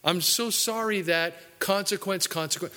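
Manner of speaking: a lightly hammed-up whining apology; whiny sorry sinner. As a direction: stretch out every so sorry like a sulky penitent. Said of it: "people who are".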